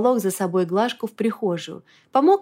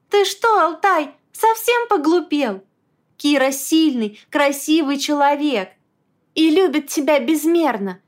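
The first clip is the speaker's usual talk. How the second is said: storming; 6 semitones higher, 4 dB louder than usual. A narrator's reading. Wife raging on about Kira.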